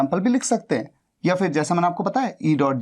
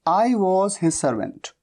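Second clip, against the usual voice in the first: very slow, each word spelled out for students; slow dictation; much slower than usual. Shown as a demonstration. Teacher slowly dictating the English sentence to learners. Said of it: "ऐसे जैसे कि".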